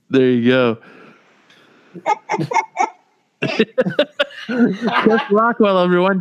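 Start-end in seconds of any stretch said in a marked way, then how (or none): 3.5-6.2 hammy announcer intro, drawn out. Pretend. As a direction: present the name like a showman. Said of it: "in that voice".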